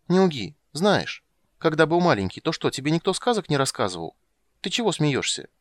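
put-on high, loud childish nagging; a girl pestering; demanding little girl. Ciri to Geralt, high loud nagging. Ciri's voice.

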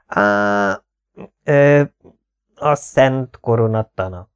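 halting, slow stammer; hesitant stammering student. Acted. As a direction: stumble nervously into the phrase. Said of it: "dadogom újra".

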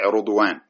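"رضوان" said rudwan, first vowel u; with damma. Shown as a demonstration. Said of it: "هكذا بالضم".

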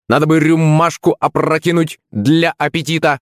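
high parrot voice with rolled R; high, exclaimed bird imitation; Rambo. A narrator's reading. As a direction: squawk it like a talking parrot. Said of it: "закричал Кузьма голосом Рэмбо".

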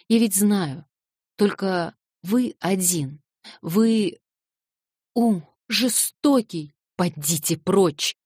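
high, slow, tearful denunciation; girl, weeping, driving the old man away; tearful anger. Acted. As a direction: drag out every word through tears. Girl denounces old man, crying.

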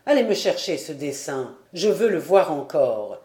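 voix grave et forte, chaleureuse et encourageante; vieux docteur ému. A narrator's reading. (le docteur félicite Diane, voix grave et émue)

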